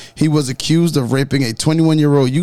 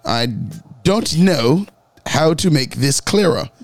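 mock English accent, mild; a lightly put-on bad English accent; terrible English accent. Host mocking the fugitive's interview, in a mild bad English accent. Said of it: "With a terrible English accent".

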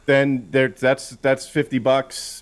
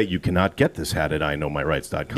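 deep, quiet announcer read; 10 semitones lower, 5 dB quieter than usual. Shown as a demonstration. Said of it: "I could put my announcer voice back on".

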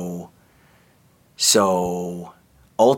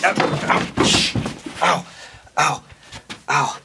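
pained ow; 5 semitones higher than usual. Acted. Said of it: "I just got up too quick".

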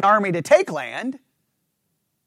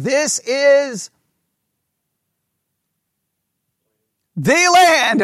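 This is drawn out slow, then land hit higher and louder; slow build, then punch land; stress on land; 3 semitones higher, much slower than usual. Shown as a demonstration. Teacher reading scripture to make the class hear land, slow build to a stressed land. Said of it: "read that word out loud".

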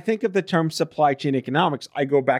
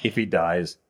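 mock Russian villain; 8 semitones lower, slower than usual. Rocky villain quote after accent talk.

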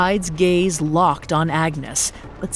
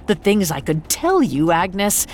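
snide Hyde. Acted. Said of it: "the snide voice that rambled on".

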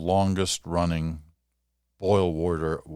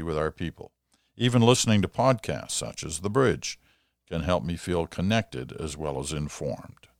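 reading a letter aloud. Acted. Host reads listener letter aloud.

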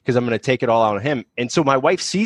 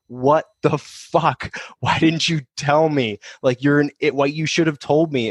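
higher, drawn-out mock disbelief; imitated shock; 3 semitones higher, slower than usual. Wife reacts to husband's withheld news, imitated shock. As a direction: stretch the opening words in retold exasperation.

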